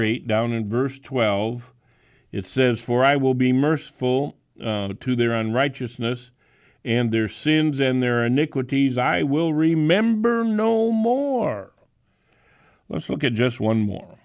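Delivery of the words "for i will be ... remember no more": preacher reading with a climax; scripture reading. Acted. Reads scripture.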